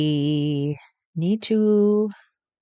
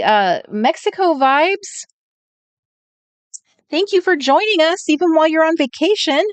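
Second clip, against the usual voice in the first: high, louder, gushing hello to viewers; sing-song much higher greeting; bright excited greeting; 11 semitones higher, 4 dB louder than usual. Real, not acted. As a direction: welcome each viewer like a friend arriving. Greeting viewers on live stream.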